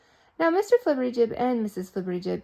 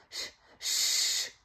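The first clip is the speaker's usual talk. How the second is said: hush. Acted. Hushing the rooster.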